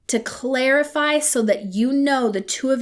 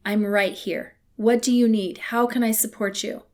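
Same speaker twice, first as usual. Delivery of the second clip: soft support. Shown as a demonstration. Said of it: "You say".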